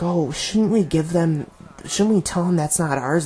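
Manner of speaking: mock naive. Commentator voices Nick questioning the shipment, mock naive. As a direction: imitate a well-meaning, naive objector. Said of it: "Nick, all of a sudden being naive".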